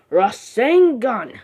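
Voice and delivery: high, drawn-out mock battle cry; restrained anime-style attack call. Naruto rushing, calls out attack.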